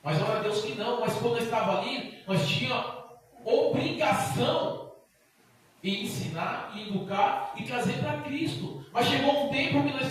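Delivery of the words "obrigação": drawn out slow and high, obrigação; slow stressed word. Real, not acted. Preacher to church, obrigação drawn out slowly. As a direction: lean on obrigação, stretching it.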